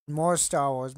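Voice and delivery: hyped call to viewers; excited announcement. Real, not acted. Announcing next display item.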